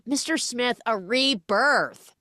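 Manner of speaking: high, slow, grand trailer announcement; dramatic tagline. Pretend. Host hams up the movie's tagline, grandly intoned.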